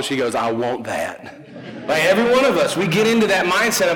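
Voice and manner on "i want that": slow, drawn-out covetous imitation; Napoleon Dynamite lady. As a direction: drag it out like the movie lady. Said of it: "like the lady on Napoleon Dynamite".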